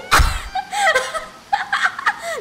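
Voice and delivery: high, loud squealing outburst; shrieking laugh. Real, not acted. Streamer reacting to the game, loud shrieking laugh.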